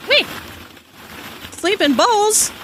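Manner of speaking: high, slow, incredulous question; mock surprise. Seeing the sleeping balls drawing, hammed-up shock. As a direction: gasp out the words in disbelief.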